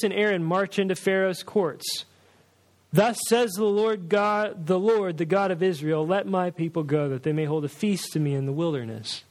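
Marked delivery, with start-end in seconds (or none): 2.9-9.2 proclaiming announcement. Shown as a demonstration. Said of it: "Just come in and just announce".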